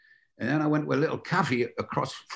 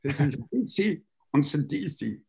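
German secretary giving in with a laugh; mock German whispering the initials; German accent, letting it slip. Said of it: "And she went".

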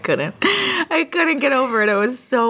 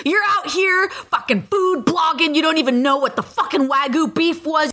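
retold angry tirade; 5 semitones higher than usual. Customer berating food bloggers, retold in mock fury. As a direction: act out his outrage for laughs.

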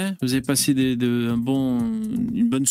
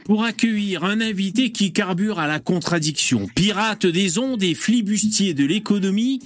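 grand entrance announcement. Acted. Host's grand guest introduction.

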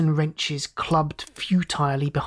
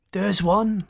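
roar; 4 semitones higher than usual. Acted. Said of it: "roared Derval".

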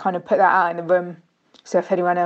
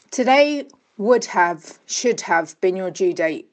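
grieving read; slower than usual. Real, not acted. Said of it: "saying it out loud might help".

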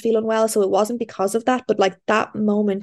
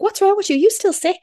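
much higher-pitched mimicking voice; high, mock-questioning imitation; imitated nosy friends; 12 semitones higher than usual.

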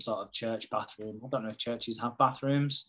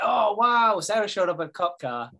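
high, louder wowed onlooker; mock amazement; 7 semitones higher, 4 dB louder than usual. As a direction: act out an impressed wedding guest. Acting out amazed wedding guests.

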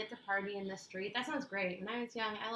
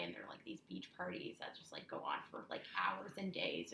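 whispering; 7 dB quieter than usual. Real, not acted. Whispered stretch.

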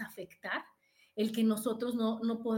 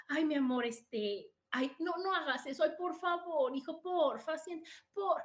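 pleading permissive mom; 3 semitones higher than usual. Retold or imitated. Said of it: "Ahora le piden permiso a los hijos".

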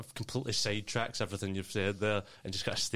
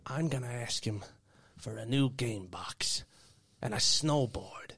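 whispering; 3 semitones higher than usual. Acted. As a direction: whisper the wish list. Kid whispering wish list.

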